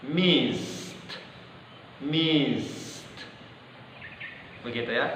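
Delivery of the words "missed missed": "Missed" with the hiss held and the t dropped. Shown as a demonstration. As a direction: say "Missed" ending on the s. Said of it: "langsung drop huruf T-nya". ("Missed" dengan T di-drop)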